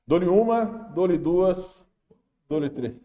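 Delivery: playful going once, twice, thrice; auctioneer. Pretend. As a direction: count down like an auctioneer. Mock auction countdown to answer.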